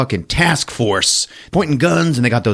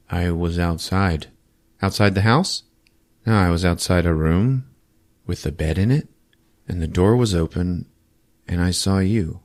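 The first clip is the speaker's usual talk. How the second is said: flat, emotionless. Retold or imitated. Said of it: "no emotions".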